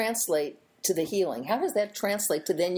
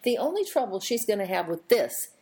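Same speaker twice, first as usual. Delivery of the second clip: pointed retort; 5 semitones higher than usual. Retold or imitated. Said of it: "I said".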